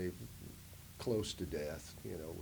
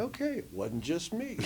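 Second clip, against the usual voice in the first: relieved; 10 semitones higher than usual. Retold or imitated. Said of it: "I was like".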